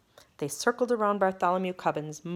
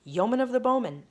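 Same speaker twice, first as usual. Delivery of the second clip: echoing lords; 7 semitones higher than usual. Acted. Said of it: "echoed all the lords".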